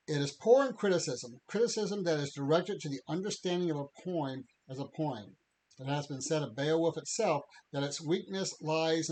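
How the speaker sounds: measured lecture-quote reading; reading aloud. Acted. Podcaster reads Tolkien's lecture to co-host, reading aloud. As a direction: read it out as a formal quotation.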